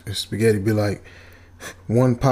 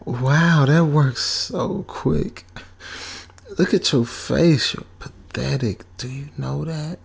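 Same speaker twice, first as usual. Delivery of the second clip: mean evil voice; 4 semitones higher, slower than usual. Retold or imitated. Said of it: "Her mean-spirited voice ... it's evil".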